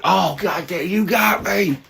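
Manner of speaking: high-pitched fake admission of defeat; hammed-up high voice, pretending to be hit; mock wounded reply. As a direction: play sarcastically hurt, up high. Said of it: "I'm just like".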